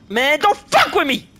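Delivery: exasperated protest. Real, not acted. Gamer finding no checkpoint, exasperated protest. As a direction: protest slowly, stressing the swear. Lingering upset after loss.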